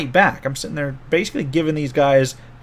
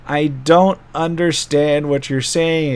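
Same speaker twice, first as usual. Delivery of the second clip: slow, deliberate, slightly raised voice; slow and loud; 3 semitones higher, slower than usual. Acted. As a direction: spell it out slowly for a foreigner. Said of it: "slowly and loudly in kobold".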